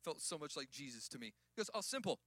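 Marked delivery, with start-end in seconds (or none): 1.7-2.2 lightly imitated Australian accent; easygoing imitation Australian accent. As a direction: quote the mentor with a touch of Aussie. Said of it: "In his Australian accent".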